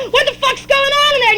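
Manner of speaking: high-pitched neighbor's yell; screaming. Acted. Neighbors calling in on the fight, screaming. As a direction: holler it from next door. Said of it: "the neighbors started screaming".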